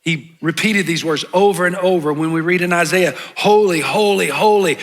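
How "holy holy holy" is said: "Holy, holy, holy" with each word firmly stressed; repetition for emphasis. Shown as a demonstration. Pastor showing Hebrew repetition to congregation, emphatic "Holy, holy, holy". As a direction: give every "holy" the same strong beat. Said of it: "That's for emphasis".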